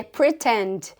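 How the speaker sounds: "pretend" said slowly and low; careful model reading of "pretend"; correct English pronunciation. Shown as a demonstration. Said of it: "tentando falar a palavra fingir em inglês".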